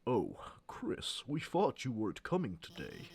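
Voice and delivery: lightly nasal teacher voice; a hint of a pinched-nose teacher; pinched nose impression. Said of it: "this is my impression".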